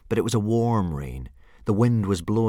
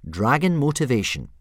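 raised, announced heading; reading aloud; 5 semitones higher, 4 dB louder than usual. A narrator's reading. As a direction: read it out like a title. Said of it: "Hiccup read aloud".

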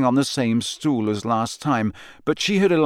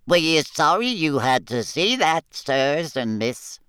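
higher, apologetic little elf; ashamed elf squeak; 5 semitones higher than usual. A narrator's reading. A house elf apologises to the visitors in a squeaky voice. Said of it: "squeaked a nearby elf".

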